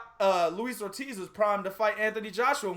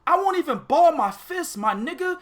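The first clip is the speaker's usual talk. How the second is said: hyped rant; 6 semitones higher than usual. Real, not acted. Pimp rant.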